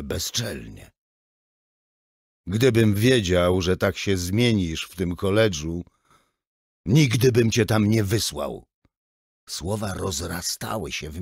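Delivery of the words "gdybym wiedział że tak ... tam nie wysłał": angry outburst. Acted. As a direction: lash out at the son. (ojciec wybucha gniewem na syna)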